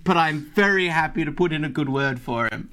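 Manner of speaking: hedging, nervous minor-employee character; put-on voice of an anxious underling; flustered elf worker. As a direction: stammer out a cautious offer. Elf bargains as laughing players listen.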